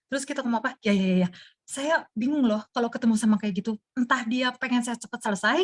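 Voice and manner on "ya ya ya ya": quick ya ya ya, lightly acted impatience; mock hurried yes-yes. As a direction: pretend you want them to finish. Same listener imitated again.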